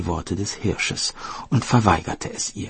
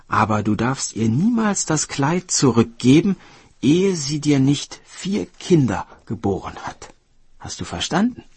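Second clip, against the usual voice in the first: raised, emphatic cautioning voice; warning deer; 5 semitones higher, 4 dB louder than usual. Acted. Deer warning woodcutter never to return the dress, emphatic. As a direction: lay down the rule firmly, pitch lifted.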